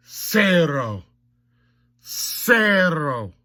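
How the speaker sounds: mock stat announcer. Calls out mock stat report.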